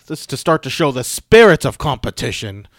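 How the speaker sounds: put-on British accent. Co-host quoting the match notes, put-on British accent. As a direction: announce it in a mock British accent. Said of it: "I said that in a British accent".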